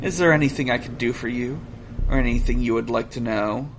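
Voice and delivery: measured polite android; robot voice. Acted. Reads robot's lines.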